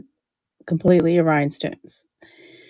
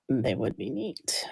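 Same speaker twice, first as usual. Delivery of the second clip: hoarse, worn-out voice; straining with a tired throat; losing voice. Real, not acted. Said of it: "Really losing my voice here".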